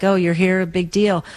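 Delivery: flat, unimpressed mock greeting. Loved ones barely noticing you come home, mildly unimpressed. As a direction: shrug it off like it's no big deal. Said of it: "they look at us like".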